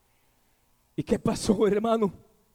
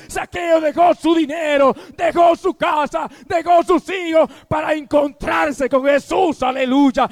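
fervent preaching. Acted. Pastor urging listeners to give everything up, in fervent preaching. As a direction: call the faithful to leave it all behind.

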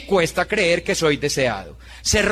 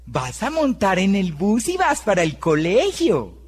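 put-on gentle, sugary voice for a little child; sweet pastel tone. Shown as a demonstration. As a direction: coax it like talking to a small kid. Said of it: "pero cambió el tono".

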